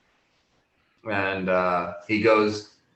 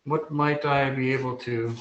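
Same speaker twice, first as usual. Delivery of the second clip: higher-pitched, lilting gnome voice; gnome shopkeeper; 5 semitones higher than usual. Acted. Gnome greets customers in the shop, obliging higher voice. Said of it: "the gnome turns around".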